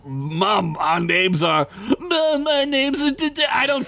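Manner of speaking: high flustered goblin; high stammering goblin. Acted. Goblin correcting, cut off.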